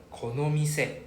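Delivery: Konomise with a falling end; Japanese pronunciation. Shown as a demonstration. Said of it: "the front part a bit weird".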